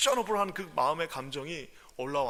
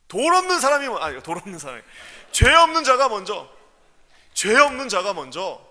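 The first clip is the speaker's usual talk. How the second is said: much louder, higher; shouted correction; 5 semitones higher, 14 dB louder than usual. Real, not acted. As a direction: correct himself with force. Excited preaching correction.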